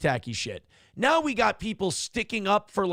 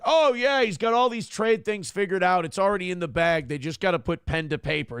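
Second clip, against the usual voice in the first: mock boastful. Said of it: "The Trump allies are like".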